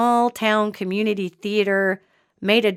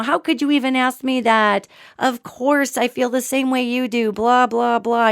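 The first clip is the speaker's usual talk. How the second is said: higher-pitched offended protest, lightly acted; mock indignant fit; 3 semitones higher than usual. Demon posing as the wife protests, in a mock indignant fit. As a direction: imitate someone throwing a fit. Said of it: "threw this big fit".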